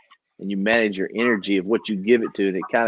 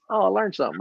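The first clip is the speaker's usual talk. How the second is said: mock discovery; 8 semitones higher, faster than usual. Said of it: "Educate means".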